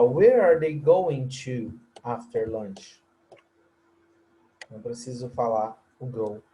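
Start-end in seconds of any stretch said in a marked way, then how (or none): 0.0-3.0 slow model question, go dropped. Shown as a demonstration. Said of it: "Eu posso falar".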